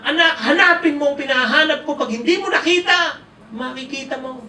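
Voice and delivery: high, loud mock threat; scolding parent. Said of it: "Pinagalitan yung anak". (pasigaw na pagbabanta ng magulang)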